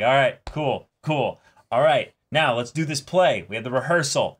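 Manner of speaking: a director rallying his cast, lightly excited. Retold or imitated. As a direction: pump the cast up, all business. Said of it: "And it's like".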